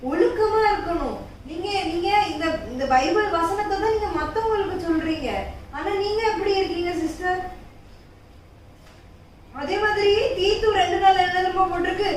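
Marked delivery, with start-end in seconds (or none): none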